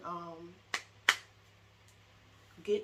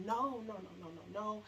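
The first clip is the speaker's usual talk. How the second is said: tearful retold pleading; a touch of crying in the no's; mild imitated sobbing no; 3 semitones higher than usual. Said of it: "crying, like".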